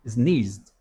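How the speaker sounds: "Sneezed" finished with a short zd; z to d ending. Shown as a demonstration. Teacher repeats sneezed for students. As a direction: close on zd, no E. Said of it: "vai do Z pro D".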